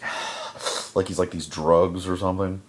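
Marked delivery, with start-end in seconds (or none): 0.0-0.9 voiceless huff into a mask; imitated mask breathing. Villain inhaling drugs through his mask, imitated. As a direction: imitate sucking on a gas mask.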